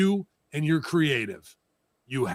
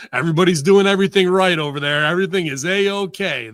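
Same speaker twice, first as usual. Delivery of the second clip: sarcastic; 3 semitones higher, 6 dB louder than usual. Acted. Sarcastic defence of the company.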